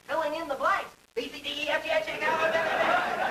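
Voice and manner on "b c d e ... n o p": rushing to keep up. Shown as a demonstration. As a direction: race through them, breathless. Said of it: "you gotta run along behind him".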